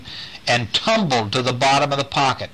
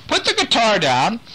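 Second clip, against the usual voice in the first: high call, weight on "the", tune rising; calling again; 10 semitones higher than usual. Acted. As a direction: repeat the call, leaning on "the". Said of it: "Nick is calling to him".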